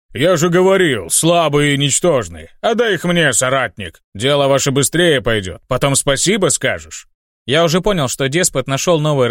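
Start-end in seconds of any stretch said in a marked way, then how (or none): 0.1-7.1 gloating demon. Acted. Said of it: "демон довольно загрохотал".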